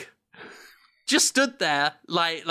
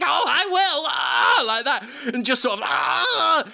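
higher, loud mock shout and cry; hammed-up Goblin climax; 8 semitones higher, 4 dB louder than usual. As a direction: yell it out in mock ecstasy. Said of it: "It's like".

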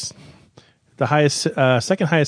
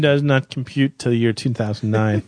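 robot voice; 3 semitones lower than usual. Pretend. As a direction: speak like a robot. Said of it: "Will you stop talking like a robot?".

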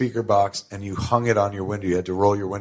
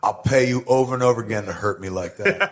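laughing. Real, not acted. Laughing joke about crying.

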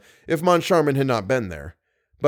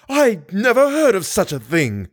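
put-on outraged old woman; 7 semitones higher, 4 dB louder than usual. A narrator's reading. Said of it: "She choked with rage".

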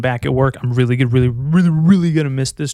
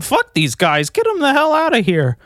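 mock rich snob; 9 semitones higher than usual. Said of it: "you'd be like".

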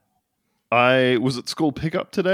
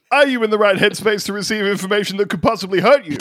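drill sergeant shouting; 6 semitones higher than usual. Pretend. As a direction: call out the private like a drill sergeant. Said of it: "It's just that you are shouting".

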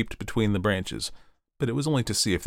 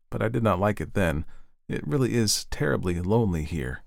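lightly voiced fir tree; 3 semitones higher than usual. The fir tree dreaming of the evening, lightly hopeful.

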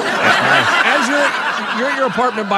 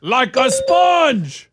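drawn-out quote; 3 semitones higher, 3 dB louder, much slower than usual. Retold or imitated. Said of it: "quoting the Colts guy".

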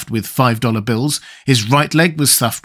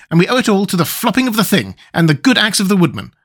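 quick, higher, eager insect voice; Wogglebug, joyful; 6 semitones higher, faster than usual. Acted. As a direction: rattle off the thanks.

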